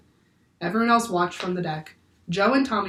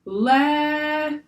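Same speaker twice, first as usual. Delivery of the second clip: a breathy, whispery sea creature; breathy windy whisper; 9 semitones higher, 4 dB louder than usual. Acted. Octopus speaks to the crew, breathy and whispery. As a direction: breathe it like the wind. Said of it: "breathy and whispery, as if from the wind".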